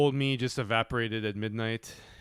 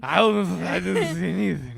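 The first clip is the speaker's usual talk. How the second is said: put-on high, louder kid voice; whiny kid denying; 8 semitones higher, 9 dB louder than usual. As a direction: protest innocence like a caught kid. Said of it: "acting the son's denial".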